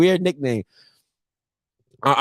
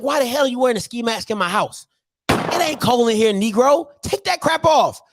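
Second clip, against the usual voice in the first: higher-pitched mock-angry dad scolding; acted outburst of a fed-up father; scolding parent; 6 semitones higher than usual. Dad to his son in a ski mask, scolding.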